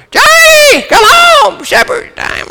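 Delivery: high, loud calling yell across the yard. Retold or imitated. Mother calling her son in for supper, loud high yell. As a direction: holler for the boy to come home. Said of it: "she yelled for".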